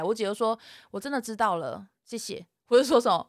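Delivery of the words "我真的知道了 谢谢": quiet, emotionless acknowledgement; robotic compliance. Retold or imitated. Sister ending the practice quarrel, robotic compliance. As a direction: close the argument like a polite robot, fading. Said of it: "你姐好像机器人哦".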